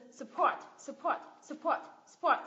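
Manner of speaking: "support" with a weak suh and strong PORT; stress on second syllable. Shown as a demonstration. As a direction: land on the end of "support". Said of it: "mình nhấn vào tiếp thứ hai".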